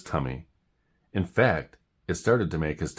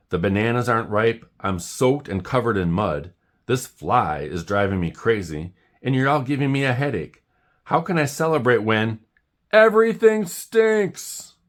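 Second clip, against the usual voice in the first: louder and higher to a yelled stinks; building outburst; 6 semitones higher, 4 dB louder than usual. Acted. Jim fed up with everyone's cheer, building to an angry yell. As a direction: rant that boils over into a shout.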